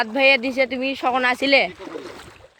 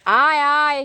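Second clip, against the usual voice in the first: raised, higher beckoning call; 5 semitones higher, 4 dB louder, slower than usual. Real, not acted. Calling a companion to come over, raised voice. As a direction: call someone over from a distance.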